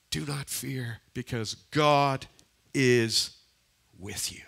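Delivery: soft and measured, pausing between phrases; hushed scripture quote. Retold or imitated. Preacher quoting Isaiah to reassure the congregation, hushed and spaced out. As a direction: let it sink almost to a whisper.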